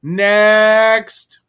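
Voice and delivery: loud, drawn-out call on one level note; robotic monotone. Acted. DMV clerk calling the next customer, robotic monotone. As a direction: call it out like a blank-eyed clerk. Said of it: "thousand-yard stare, monotone voice".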